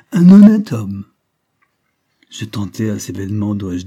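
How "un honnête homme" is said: higher, much louder, slow sardonic sneer; mock the words with a nasty laugh; sneering cackle. Old professor sneers at the narrator's ambition, sardonic laugh. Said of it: "ricanait-il".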